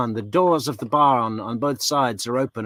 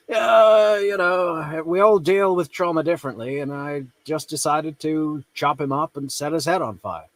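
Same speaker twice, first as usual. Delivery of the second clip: higher, airy put-on voice, nonchalant; mock airy killer; 4 semitones higher than usual. Commentator mimicking the killer on trauma, higher airy mock voice. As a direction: shrug it off like therapy talk.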